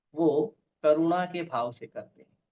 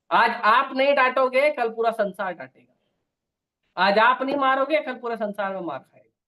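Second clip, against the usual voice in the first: higher, louder preaching warning; rising sermon fervour, each line pushed higher; forceful warning; 5 semitones higher, 4 dB louder than usual. Real, not acted. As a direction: drive the warning home to the parents. Preacher warns parents forcefully.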